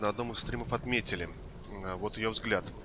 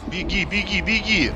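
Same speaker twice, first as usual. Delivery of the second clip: urging the character to run; rising, pressing repeated commands; urgent shouting; 7 semitones higher, 7 dB louder, slower than usual. Real, not acted.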